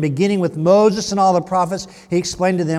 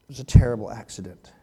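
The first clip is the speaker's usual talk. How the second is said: whisper; 8 semitones lower, faster than usual. Acted. Aside whispered during scripture retelling.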